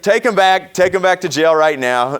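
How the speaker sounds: retold loud demand. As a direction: call out "take him back" like you mean it. Tom bluffing the judge loudly.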